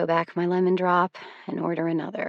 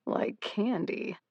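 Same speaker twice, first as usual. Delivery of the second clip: grinning; 3 semitones higher, 7 dB quieter, much slower than usual. A narrator's reading. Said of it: "he grins".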